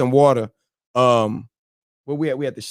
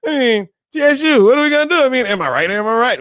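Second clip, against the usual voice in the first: much higher, louder hammed-up mobster voice; Italian gangster movie talk; 13 semitones higher, 5 dB louder than usual. Calling out TSU in a mock movie-gangster voice. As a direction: lean into the wiseguy bit, fast. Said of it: "I love how they talk like that".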